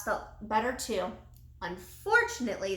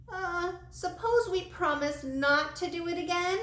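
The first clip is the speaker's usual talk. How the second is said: high, whiny plea; muffled whine; 8 semitones higher than usual. Acted. Desperate Jimmy whines a plea to the old man, high and muffled. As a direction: whine it out desperately from under the trash. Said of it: "a muffled whine came from Jimmy".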